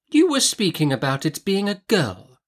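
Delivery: resume the subject with authority; assertive Miss Betsy. A narrator's reading.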